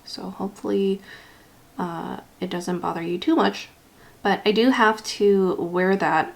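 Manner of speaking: slight lisp from a retainer; talking around a retainer; wearing a retainer. Real, not acted. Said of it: "I'm sorry if I sound a little bit different. I do have my retainer in".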